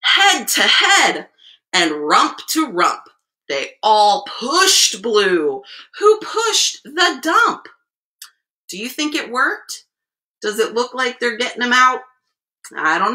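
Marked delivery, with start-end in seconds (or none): 0.0-7.7 expressive storyteller with stretched key words; picture-book reading. A narrator's reading. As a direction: read the rhyme aloud to small children. Reads picture book to children.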